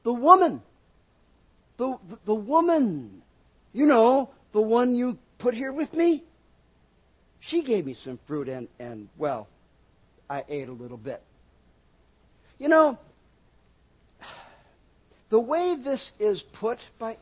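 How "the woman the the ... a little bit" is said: blame-shifting Adam. Acted. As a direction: hem and haw like a guilty man, trailing off. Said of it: "He starts out by blame shifting".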